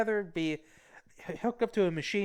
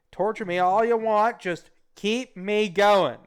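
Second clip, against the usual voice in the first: mock plea; 5 semitones higher, 5 dB louder, slower than usual. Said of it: "Mister Serial Killer".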